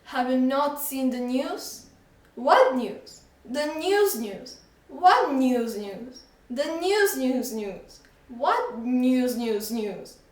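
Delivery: slow, drawn-out rising repetition; comic escalating exchange. Acted. Shopkeeper and boy comically repeat news, slowing down.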